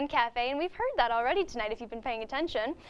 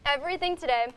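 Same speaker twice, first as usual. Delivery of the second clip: talking with a mouthful of cookie; mouth full. Real, not acted. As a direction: speak through a bite of cookie. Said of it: "caution that I'm talking with my mouth full".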